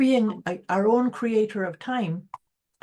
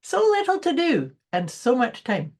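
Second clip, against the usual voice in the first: retold saying; 3 semitones higher than usual. Repeats the friend's saying more briskly.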